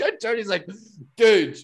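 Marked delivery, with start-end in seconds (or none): 1.2-1.6 loud, high, stretched-out mock shout; exasperated coach impression, played for laughs; imitated coach yell. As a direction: yell it slowly like a fed-up coach. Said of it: "like, yelling at me".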